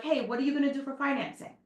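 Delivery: "Hey, what are you gonna do for financing?" asked lightly and quickly, easygoing; the friendly way to ask about financing; friendly, right way. Shown as a demonstration. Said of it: "sounds much better".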